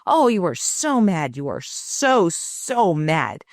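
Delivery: mother echoing her upset daughter, mildly mirrored; mirroring her. Retold or imitated. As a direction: reflect her mood back gently. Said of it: "mirroring her".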